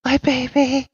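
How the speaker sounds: high, slow words broken by mad laughter; maniacal laughing. Acted. Madwoman laughing madly at the party. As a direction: cackle through the confession. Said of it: "begins to laugh like a maniac".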